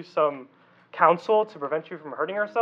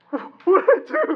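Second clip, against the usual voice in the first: high, louder indignant question; retold kid protest; 11 semitones higher, 3 dB louder than usual. Pastor replaying his childhood self to the youth, indignant disbelief. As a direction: replay your younger self's confused protest. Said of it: "I'm like".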